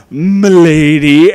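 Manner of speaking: loud, drawn-out mock gallantry; mock-gallant exclamation. Reviewer quoting the movie's suitor to ridicule him, loud mock-gallant. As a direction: belt it out as a mocking quote.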